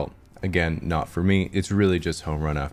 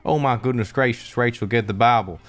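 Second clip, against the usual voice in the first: a shocked churchgoer gasping "Oh my goodness gracious"; scandalised prude; 3 semitones higher than usual. Retold or imitated. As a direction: clutch pearls, horrified. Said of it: "most North Americans would say".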